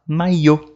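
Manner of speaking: "maillot" said "ma-yô"; French "maillot" with a gliding LL and silent T. Shown as a demonstration. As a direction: glide through the LL of "maillot". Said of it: "tem o som do I".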